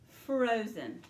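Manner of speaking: frozen said clearly for the class; choral model word. Shown as a demonstration. Teacher modelling frozen for pupils to repeat. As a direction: say "Frozen" slowly and clearly, both syllables. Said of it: "Say it with me".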